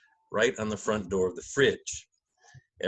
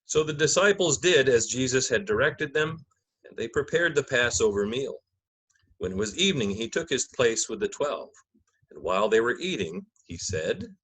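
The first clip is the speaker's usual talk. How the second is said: measured, solemn Gospel narration; liturgical reading. Acted. Narrator opening the Passion for the congregation, solemn reading. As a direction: read it like Scripture from the lectern.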